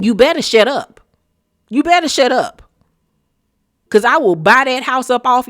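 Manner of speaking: loud sassy read of her; mock clapback. Telling Dorit off in a loud sassy clapback. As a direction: tear into her, full attitude.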